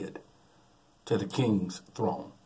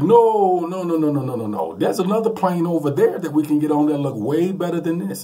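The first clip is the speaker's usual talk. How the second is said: loud, higher panicked no no no; panicked refusal; 6 semitones higher, 8 dB louder than usual. Retold or imitated. Nephew refusing to board the crop duster, panicked and loud. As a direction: beg off the plane in a rising panic. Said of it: "he's literally panicking".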